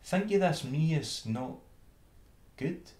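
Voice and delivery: high, puzzled little mouse voice; country mouse asking if her food is not good. Acted. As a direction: ask in mild surprise. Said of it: "quoth she".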